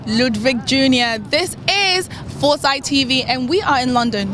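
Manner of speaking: measured, deliberate TV link; presenter ident. Acted. Guest recording a Foresight TV ident, measured presenter delivery. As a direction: announce the show to camera, drawing out the names.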